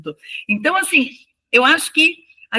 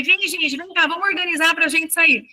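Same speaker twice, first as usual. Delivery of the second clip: put-on raised, higher voice calling children together; calling the class; 6 semitones higher than usual. Teacher calling her class off the court. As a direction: round up the kids, voice up and carrying.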